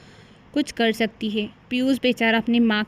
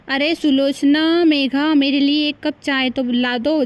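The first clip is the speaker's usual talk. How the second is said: raised, slow call across the house; calling out for tea; 3 semitones higher than usual. Acted. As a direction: call the wives from another room. Husband calling wives for tea.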